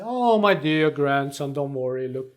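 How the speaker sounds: grandma voice. Pretend. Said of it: "your grandmother will say".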